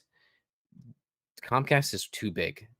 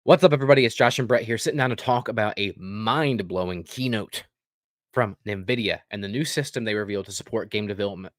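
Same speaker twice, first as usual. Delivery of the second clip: loud, upbeat host opening; punchy announcer intro that settles after the greeting; show intro; 6 dB louder than usual. Acted. Host greets viewers to introduce the keynote, show intro.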